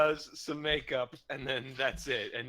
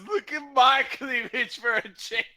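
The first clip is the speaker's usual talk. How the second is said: sassy female voice; 11 semitones higher, 7 dB louder than usual. Retold or imitated. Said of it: "she just goes".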